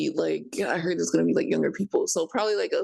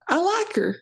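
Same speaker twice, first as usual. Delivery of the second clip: put-on Southern accent, higher and stronger; 10 semitones higher than usual. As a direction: lean harder into the Southern accent. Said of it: "I'm not doing my Southern accent".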